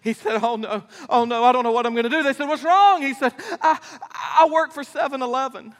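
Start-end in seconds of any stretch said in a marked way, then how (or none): 0.4-2.2 mock despair. Fainted father in despair. 2.5-3.0 much higher, louder "what's wrong"; alarmed, hammed-up; urgent question. Fathers ask urgently. 3.6-5.7 laughing punchline. Acted. Punchline, dismayed father.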